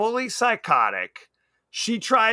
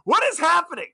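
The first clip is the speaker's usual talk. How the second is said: higher, incredulous disbelief; baffled; 5 semitones higher than usual. Retold or imitated. Viewer retelling a bizarre dance scene, higher and baffled. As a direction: react like you can't believe your eyes. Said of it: "I'm like".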